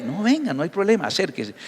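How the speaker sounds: más suave, tranquilizador; acércalo con calma; Jesús insistiendo suave. Acted. (Jesús calma al leproso con voz suave)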